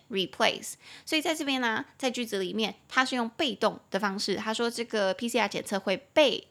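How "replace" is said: replace with weight on PLACE; stress on last syllable. Shown as a demonstration. Teacher shows where the stress falls, replace stressed on PLACE. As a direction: hit the second syllable of replace. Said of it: "中音节在后面".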